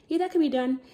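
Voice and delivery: breezy, unbothered reply; calm leasing lady. Retold or imitated. Leasing office lady calmly agreeing to the request, lightly voiced. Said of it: "so calm".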